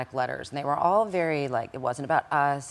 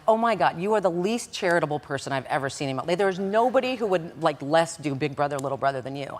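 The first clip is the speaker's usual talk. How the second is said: incredulous scorn. Retold or imitated. Laughing at his lie.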